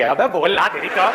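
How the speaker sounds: drawn-out, slow heckle in mock anger; mock exasperation. Audience losing patience with the speaker, mock furious. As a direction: act the fed-up crowd, stretching the words. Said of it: "लोग बौखला जाएंगे".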